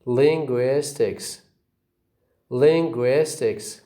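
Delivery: "Linguistics" stressed on LIN and GUIS; careful, measured "Linguistics", weight on LIN and GUIS; two stresses. Shown as a demonstration. Teacher shows example words, "Linguistics" with two stresses, LIN and GUIS. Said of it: "You see two stresses".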